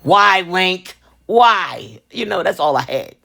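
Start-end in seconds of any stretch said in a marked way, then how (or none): 0.0-2.0 put-on pleading in horror at the kid; mock despair at the little boy, high then whispered; shocked disbelief. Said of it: "I was like".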